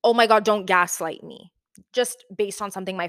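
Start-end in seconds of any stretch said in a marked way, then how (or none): 0.0-1.5 mock dramatic. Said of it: "I'll jokingly, like".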